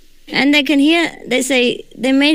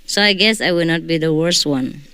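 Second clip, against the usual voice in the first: ordinary delivery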